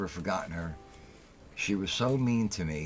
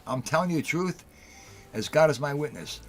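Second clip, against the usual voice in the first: heated retelling; 6 semitones higher than usual. Real, not acted. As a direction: get fired up telling it. Retelling his furious revenge, heated.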